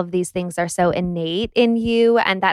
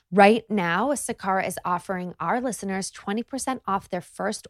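smooth, scripted sponsor read; podcast ad read; 9 dB quieter than usual. Real, not acted. Host pitches wellness meals to podcast listeners, scripted ad read. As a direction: read it out as a polished host endorsement.

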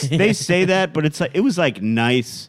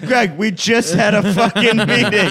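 laughing; 10 semitones higher, 6 dB louder than usual. Retold or imitated. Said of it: "And I go".

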